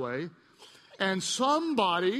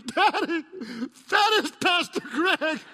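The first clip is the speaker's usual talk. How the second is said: put-on high, louder little kid voice; child's voice; 8 semitones higher, 5 dB louder, slower than usual. Pastor voicing his scared little son in the car, high kid voice. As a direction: voice the boy, higher and wide-eyed. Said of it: "He goes".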